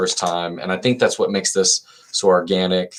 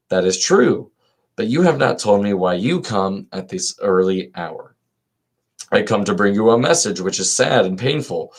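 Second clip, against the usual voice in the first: dialogue read aloud; 2 semitones higher than usual. Acted. Reader voicing Crito and Socrates for listeners, lilting read-aloud.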